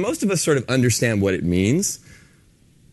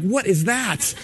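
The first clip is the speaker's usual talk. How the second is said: surprised at yourself; 8 semitones higher, much slower than usual. Retold or imitated. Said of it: "I'm like".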